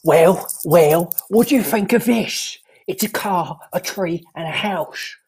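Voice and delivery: a light put-on Cockney accent; lightly voiced Cockney bloke; David Cockney. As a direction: play a cheeky Cockney geezer, lightly. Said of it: "It's David Cockney".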